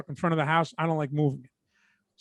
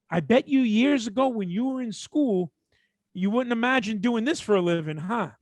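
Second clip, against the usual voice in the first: condescending customer; 4 semitones higher than usual. Retold or imitated. Storyteller imitating an older customer to him, condescending.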